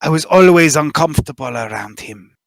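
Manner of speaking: a lightly voiced nervous informant, spilling his story; nervous smuggler confessing. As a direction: talk like a worried smuggler who finally confesses. GM continues smuggler NPC monologue.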